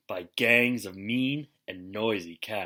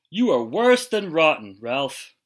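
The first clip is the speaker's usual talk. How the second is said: raised, louder scolding; 4 semitones higher, 6 dB louder than usual. Acted. Father scolding Ralph for sitting in his chair, angry. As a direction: scold the cat sharply.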